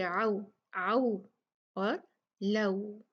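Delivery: आउ and लऊ as clear a-to-u glides; leen letters. Shown as a demonstration. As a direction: glide from open a into rounded u in आउ. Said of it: "लौ नहीं पढ़ना".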